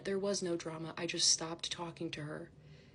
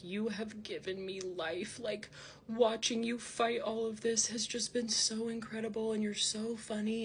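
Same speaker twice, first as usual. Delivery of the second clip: over-the-top gushing; 3 semitones higher than usual. Retold or imitated. Imitating a fan's messages to her, over-the-top gushing. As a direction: imitate an overly excited admirer. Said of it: "it was just really over the top".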